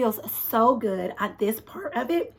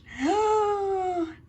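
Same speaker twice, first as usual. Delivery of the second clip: sharp thrilled intake of breath; excited gasp; 11 semitones higher than usual. Real, not acted. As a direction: gasp in delight. Gasps at hitting publish.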